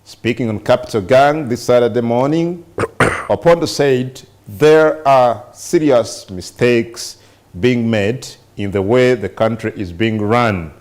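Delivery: measured news-reading voice, slowing between phrases; reading aloud. Real, not acted. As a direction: read the report out deliberately, with pauses. Reads a newspaper report aloud.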